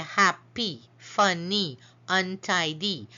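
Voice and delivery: "happy, funny, untidy" split into syllables, each ending in a long E; syllables sounded out. Shown as a demonstration. Teacher showing longer words, syllables of "happy, funny, untidy" sounded out. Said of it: "they have more than one syllable".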